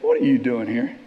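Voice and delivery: low-pitched voice of God; the Lord speaking. Acted. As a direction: drop low for the Lord's question. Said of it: "the Lord says to him".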